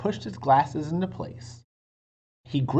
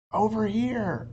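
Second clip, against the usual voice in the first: put-on high call of a little girl; Annie calling; 9 semitones higher than usual. A narrator's reading. Annie calls Jack from under the oak tree, high. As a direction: call him over eagerly. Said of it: "called Annie".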